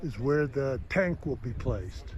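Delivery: huffing and puffing after a climb; breathless, gasping between words; out of breath. Real, not acted. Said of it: "if I'm huffing and puffing".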